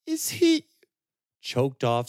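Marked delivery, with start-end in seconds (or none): 0.1-0.7 put-on high, far young woman's voice, broken by grief; Serana, grieving. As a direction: voice her like a shaken, grieving girl. Serana asks about Roger.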